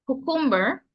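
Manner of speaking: cucumber with a final er, kyoo-kum-ber; English pronunciation. Shown as a demonstration. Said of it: "in English or cucumber".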